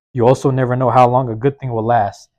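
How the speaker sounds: emphatic declaration; loud proclamation. Real, not acted. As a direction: preach it out loud like a motto. Repeated motto, first take.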